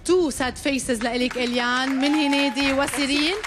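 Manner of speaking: ordinary delivery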